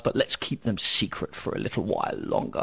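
hushed, teasing secret; secretive whisper. Real, not acted. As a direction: drop to a sly whisper. Teasing a secret about the podcast.

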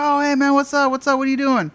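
high, loud, gushing greeting; feigned friendly recognition. Retold or imitated. Pharmacy worker going along with caller, falsely chummy. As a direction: greet them like a long-lost pal. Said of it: "you just said you knew who it was".

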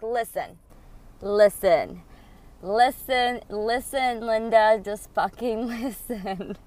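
loud repeated listen; insistent listen. Retold or imitated. Angie cutting off her ex, loud and insistent. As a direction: hammer it until he listens.

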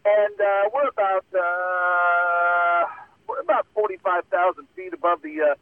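slow, drawn-out uhs like reading a script; lazy cockpit announcement; airline pilot announcement. Retold or imitated. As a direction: stretch the uhs like a captain on the intercom. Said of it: "drag it out like you're reading something".

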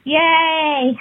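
high squeaky helium. Shown as a demonstration. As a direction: chirp it on helium. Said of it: "talk with helium".

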